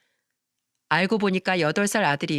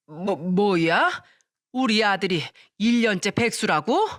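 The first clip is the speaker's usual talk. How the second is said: slow, stunned mother-in-law stammering; shocked stammer; slower than usual. A narrator's reading. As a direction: reel at the news about her son. 시모가 아들 백수 소식에 놀람. (아들이 백수라는 말에 말을 더듬으며 놀란 시어머니)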